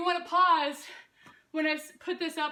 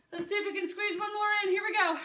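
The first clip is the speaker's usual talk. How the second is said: pumped-up coaching; 5 semitones higher than usual. Real, not acted. Coach pushing through last rep.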